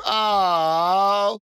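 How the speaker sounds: put-on high, loud childish aww; disappointed kids. Children sighing as the puppet gods separate. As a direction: let down like little kids. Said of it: "you hear the kids go".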